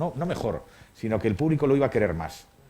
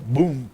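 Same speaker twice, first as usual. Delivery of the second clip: crash sound effect; 3 semitones higher, 6 dB louder than usual. Retold or imitated. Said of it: "tiré un armario".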